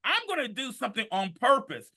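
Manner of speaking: high, loud shouted comeback; defiant self-affirmation. Acted. Man answers "not having a good day", shouting defiantly. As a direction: holler it back at the doubt. Shouts back at negative inner voice.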